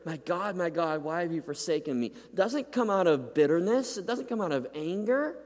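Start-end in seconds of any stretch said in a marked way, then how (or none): 0.1-2.1 perplexed. Acted. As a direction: ask it in bewilderment, not anger. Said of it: "Jesus cries out perplexed here".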